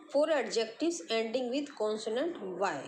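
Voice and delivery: slowly spelling out a heading for notes; very slow, clear classroom dictation. Shown as a demonstration. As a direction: dictate each word slowly so students can write.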